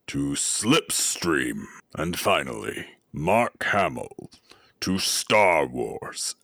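low, slow and menacing; deep ominous voice. Shown as a demonstration. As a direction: intone it like a dark lord. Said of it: "deep, ominous".

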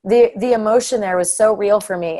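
real tears, talking through them; a voice just holding back real crying; emotional, on the edge of tears; crying now. Real, not acted. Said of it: "I'm crying now".

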